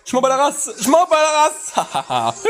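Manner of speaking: high, mounting defiant cry; defiant outburst. Real, not acted. Gamer not caring about poison, defiant high outburst. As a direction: chant it high, dragging out the repeat.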